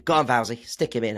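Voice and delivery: lightly voiced team boss on the phone, barely changed; casual, matey phone call to a colleague; Mercedes on the phone. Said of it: "I was doing an impression of Mercedes on the phone".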